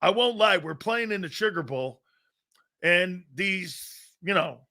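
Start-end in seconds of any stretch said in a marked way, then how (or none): 0.6-2.0 unvoiced aside; whisper. Real, not acted. Whispering the setting of his story. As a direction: whisper it like a secret.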